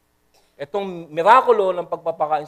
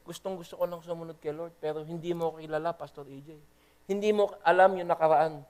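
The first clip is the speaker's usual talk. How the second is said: quiet confession; 5 dB quieter than usual. Retold or imitated. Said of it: "May mga nagsabi sa akin".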